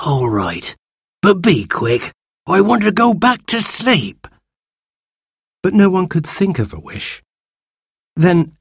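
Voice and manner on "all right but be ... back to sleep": reluctant creature voice, rising into a complaint; grumpy sand fairy. Acted. Sand fairy agrees, wanting sleep, grudging creature voice. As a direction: give in grudgingly as a tired old creature.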